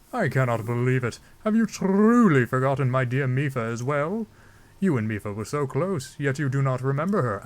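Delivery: stately monarch, mildly shocked; King Dorephan. Acted. Zora king asks about daughter Mipha, theatrical dismay. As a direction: declaim disbelief in a put-on royal voice. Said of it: "I don't know why I'm giving him that voice".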